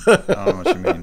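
high, loud squeaky protest; high mock innocent voice. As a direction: jump the pitch up in mock innocence. Joking denial, said twice.

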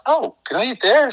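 high, excited and hopeful; hungry husband spotting bar seats, high eager excitement; eager question. Retold or imitated. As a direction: jump at the empty bar seats.

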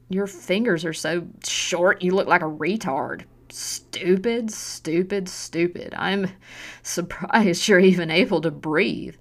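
slow, loud contempt; sneering insults. Acted. Mother belittling her daughter's hands, slow and contemptuous. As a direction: spit every insult at her.

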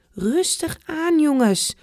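slow, soothing grandpa; gently slow the kids down; calming. Acted. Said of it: "Opa probeert ze iets te kalmeren".

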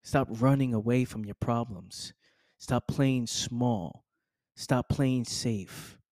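very slow, each word weighed; slow deliberate coaching line; slow emphatic command. Acted. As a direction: drag it out like a firm warning.

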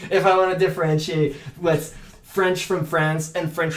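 restarting the line through a laugh. Real, not acted. Actor explaining accents to the host, laughing. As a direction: giggle as you explain it.

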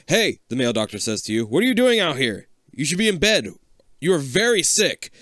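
loud, high scolding doctor; stern doctor. Acted.

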